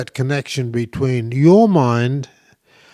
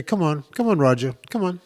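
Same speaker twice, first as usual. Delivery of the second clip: gently encouraging call to a horse; coaxing horse voice. Shown as a demonstration. Asking Roger to follow on a walk, coaxing. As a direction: coax the horse along beside you. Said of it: "you can use that voice again".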